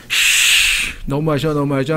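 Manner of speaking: sulky complaint after a hissed breath; mock grumbling. Believer with pouting lips complains to God, mock grumbling. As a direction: imitate someone pouting and complaining. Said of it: "하면서 막 불평, 불만을 하고".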